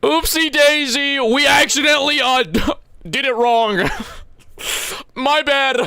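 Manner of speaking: high, slow, sing-song doctor confessing a mistake; mock doctor. Doctor confessing a botched surgery, high and silly. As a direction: make the blunder sound cutesy. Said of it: "If I went to the doctor and they're like".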